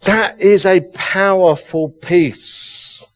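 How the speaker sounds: slow, calm, settled restating of "powerful peace"; slow solemn. Real, not acted. Quiet restatement after long pause.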